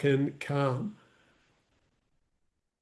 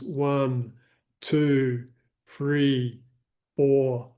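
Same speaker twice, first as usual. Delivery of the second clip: slow, even counting of breaths; guided breathing; slower than usual. Acted. Coach guiding live viewers through breathing, calm and measured. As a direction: pace the breath count gently for the listener.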